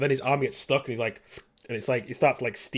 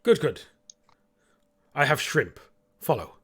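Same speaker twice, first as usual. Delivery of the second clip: clipped robot butler; brisk, abrupt host; curt robot host; 3 semitones higher than usual. Acted. GM voices Hamish abruptly.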